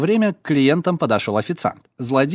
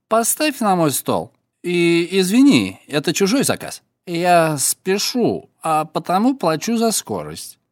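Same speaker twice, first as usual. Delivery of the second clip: put-on drunk voice; 3 semitones higher than usual. Yakhman feigns drunkenness.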